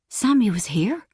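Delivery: breathless whispered hope; whispered thought. Acted. Ferdia thinking his girlfriend came, whispered hope. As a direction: whisper it to yourself, hardly daring to hope. Inner thought, hopeful surprise.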